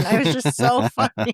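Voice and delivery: amused, giggly retelling; laughing. Real, not acted. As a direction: break into a laugh while telling it. Laughing at her son's impression.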